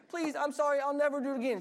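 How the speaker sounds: high, hammed-up pleading wail on "I'll never do it again"; mock wailing child. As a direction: beg like a caught kid. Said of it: "They start wailing".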